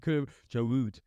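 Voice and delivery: hammed-up Scouse, mocking the pundit; mock Scouse accent. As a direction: take off a Liverpool pundit's Scouse accent saying Giroud. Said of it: "Bloody Scouse accent".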